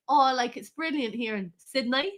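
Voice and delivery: lightly faked Australian twang on "Sydney"; mock Australian. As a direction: put on an Aussie accent, rising at the end. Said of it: "going to Australia and being all like".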